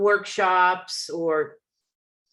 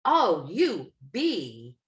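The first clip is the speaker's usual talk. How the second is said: very slow, dry mock response; sarcastic reply; much slower than usual. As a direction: let the sarcasm drag out.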